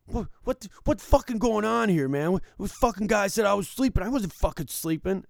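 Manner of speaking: high, loud mock yell of an angry drunk; angry shout. Dealer retelling how the angry veteran yelled, loud mock yell. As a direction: bellow it like a furious old vet. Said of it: "he goes".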